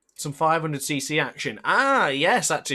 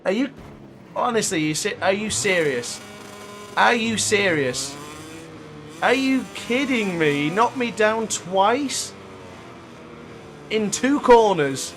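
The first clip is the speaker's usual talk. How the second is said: slow, stretched, incredulous complaint; exasperated disbelief; 4 semitones higher, slower than usual. Real, not acted. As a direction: drag it out in disbelief. Disbelief after second crash.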